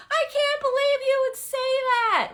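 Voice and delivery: high, loud mock indignation; indignant. Imitating a triggered person, high loud indignation. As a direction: play the offended, triggered person. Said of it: "getting mad and frustrated".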